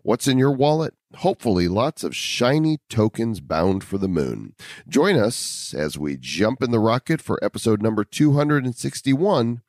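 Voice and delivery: punchy podcast intro read, rising for the hooks; announcer read. Acted. Host opening the show for listeners, announcer read. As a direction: sell the opening like a radio promo.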